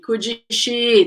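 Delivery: "could you she" as "coodjee shee"; "coodjee" in place of clean "could"; wrong pronunciation. Shown as a demonstration. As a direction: add a "jee" sound after "could". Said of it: "It's not".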